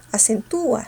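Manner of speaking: ACENTÚA with the force on the U; stressed U. Shown as a demonstration. Teacher confirming the right version, stressed U in acentúa. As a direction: say "acentúa" as a-cen-TÚ-a. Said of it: "cerrada abierta y cerrada con fuerza".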